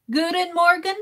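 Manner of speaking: Guten Morgen asked tentatively, rising at the end; sounding out Guten Morgen carefully; trying out the greeting. Shown as a demonstration. Streamer tries a Dutch greeting for chat, unsure. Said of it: "Am I saying that right?".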